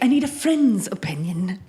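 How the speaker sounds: whispered, secretive request. Retold or imitated. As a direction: whisper it like a shy confession. Quoting her asking Joe.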